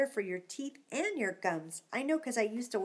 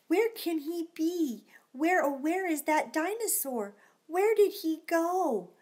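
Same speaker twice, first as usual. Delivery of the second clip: pretend searching; 5 semitones higher than usual.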